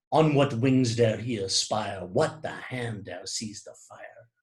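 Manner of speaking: measured verse recitation; poem read aloud. Shown as a demonstration. Lecturer reads Blake's poem to listeners, measured recitation. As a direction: recite the verse with an even beat. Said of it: "listen to the words when they are read aloud".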